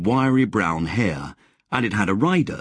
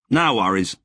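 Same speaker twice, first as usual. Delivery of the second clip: easygoing Wally; 2 semitones higher than usual. Acted. Wally's voice in dialogue.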